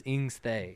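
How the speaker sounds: "Ingstay" starting on the vowel, no H; first sound moved. Shown as a demonstration. Correcting the cohost's Pig Latin, "Ingstay" starting on the vowel. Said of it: "No, you weren't right".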